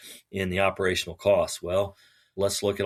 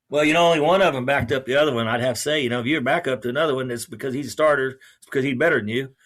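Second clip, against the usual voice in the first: excited football fan; 4 semitones higher, 6 dB louder, faster than usual. Retold or imitated. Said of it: "Oh, boy. Boy".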